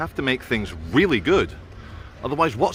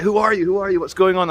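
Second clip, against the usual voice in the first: higher, louder mock questioning voice; imitating questioner; 7 semitones higher, 4 dB louder, faster than usual. Vlogger retelling a new subscriber's questions, imitating questioner. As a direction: mimic someone urgently demanding answers. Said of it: "he's like".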